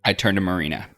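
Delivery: ordinary talk, nothing marked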